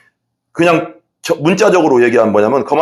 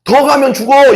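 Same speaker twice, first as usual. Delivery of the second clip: stern warning; 9 semitones higher, 3 dB louder than usual. Retold or imitated. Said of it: "이거거든".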